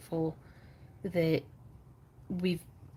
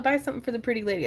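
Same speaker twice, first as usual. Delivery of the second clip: fast, higher carnival barker call; mimicked sales pitch; 5 semitones higher, much faster than usual. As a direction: rattle it off like a pushy barker. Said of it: "what somebody tried to say".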